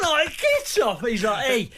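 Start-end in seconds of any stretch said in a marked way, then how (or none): 0.4-1.0 very high, struggling protest; protesting mock yell. Retold struggle with the manager. 1.5-1.7 imitated Scouse manager; Scouse accent. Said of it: "like, in his Scouse accent".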